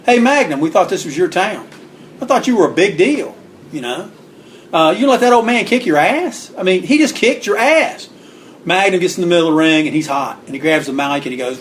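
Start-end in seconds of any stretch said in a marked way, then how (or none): 0.1-8.1 higher, mocking heckle from the crowd; heckling. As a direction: taunt the wrestler from the cheap seats. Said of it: "We're like".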